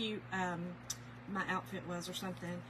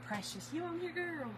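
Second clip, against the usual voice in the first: calling for someone; 7 semitones higher, 5 dB quieter than usual. Real, not acted. Checking whether a viewer is present.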